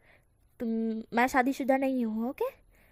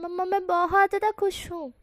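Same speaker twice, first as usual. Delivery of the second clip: higher, happy shout to mom; shouted joy; 6 semitones higher than usual. Acted. Son shouting his happiness to his mother. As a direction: call it out gleefully. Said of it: "चिल्ला कर शाहजहां इस तरह से बोलता है".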